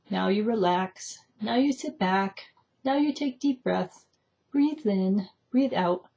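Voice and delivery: slow, measured instructions with pauses; mock meditation guide. Guide telling a meditator to relax, imitated meditation voice. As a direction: imitate a guide giving spaced-out prompts. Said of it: "the person speaking to you will say".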